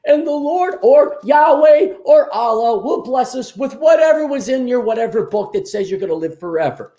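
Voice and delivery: high, smug voice mocking the faithful; mocking believers voice. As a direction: sneer it like a naive believer. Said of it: "I'm not one of you dopes".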